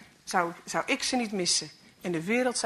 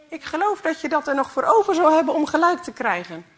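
laughing; 6 semitones higher, 6 dB louder than usual. A narrator's reading. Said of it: "lachte Fred".

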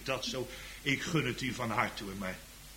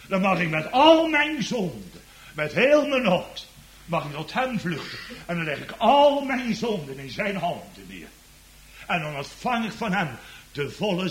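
fervent preaching; 6 semitones higher, 8 dB louder than usual. Real, not acted. Preacher lays all his sins in Christ's hands, fervent. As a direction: swell on the weighty words, then drop away.

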